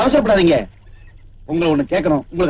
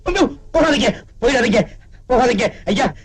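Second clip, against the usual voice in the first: wailing plea; 5 semitones higher than usual. Acted. Father begging guests not leave.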